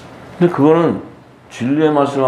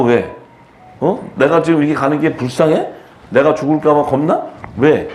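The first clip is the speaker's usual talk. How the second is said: scolding questions at the mourners; Jesus; 2 semitones higher than usual. Acted. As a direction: challenge them sternly, one question after another. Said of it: "예수님이 막 야단치잖아요". (야단치듯 따져 묻는 말투)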